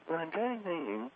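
dropping down into a hushed voice; dropped voice. Acted. Caller mumbles low to the host, hushed. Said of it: "Why are you dropping down into that Debbie Daly voice".

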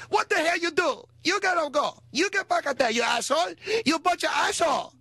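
high, shrill-pitched mock Asian accent yelling; screaming Asian cook. Little cook screaming at two brawling guys, high mock accent. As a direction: scream them back to work in a high accented voice. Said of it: "she's screaming".

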